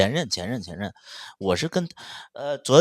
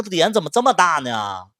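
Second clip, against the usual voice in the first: loud, high indignant jab; angry scolding; 6 semitones higher, 7 dB louder than usual. Retold or imitated. Mocking his father's nerve, loud angry scolding. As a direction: shout it in disbelief. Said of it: "我就发火了".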